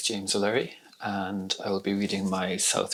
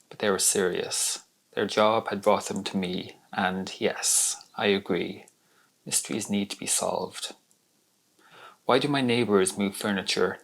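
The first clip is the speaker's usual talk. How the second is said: narrative poem recited to an audience; deliberate recital with falling line endings; poetry reading. Acted. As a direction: tell it as a poem, in measured phrases. Reads own poem aloud.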